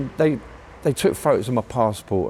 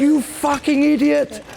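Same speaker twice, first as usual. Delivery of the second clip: mock French copper yell; 14 semitones higher, slower than usual. Retelling the Paris cop catching him, mock yell. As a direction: bark it like the furious cop. Police officer shouting at him.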